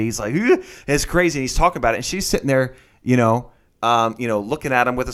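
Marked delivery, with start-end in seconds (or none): 0.3-0.6 pumped-up grunt. Retold or imitated. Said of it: "high on energy".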